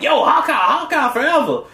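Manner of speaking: high-pitched fanboy cheer, imitated; mock fan hype. Gamer imitating comic fans hyping Hawkeye, high mock cheer.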